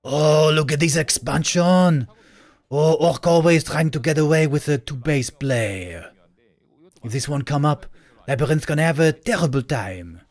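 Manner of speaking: a hint of a haughty French caster; arrogant Frenchman. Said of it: "the impression of a arrogant Frenchman".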